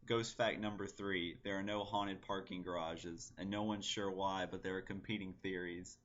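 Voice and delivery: measured, matter-of-fact recital; poem reading. Acted. Poet reading a fake ghost fact list, understated recital. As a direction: read the poem evenly in long, unbroken phrases. Reads own poem aloud.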